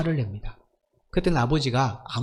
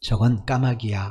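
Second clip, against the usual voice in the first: slow, smiling, gentle voice. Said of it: "끝까지 다정하게 대답해 주었다".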